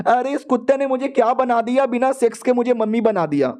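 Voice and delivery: mock outraged wife; exasperated woman. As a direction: complain in disbelief, pitched high. Wife's exasperated aside.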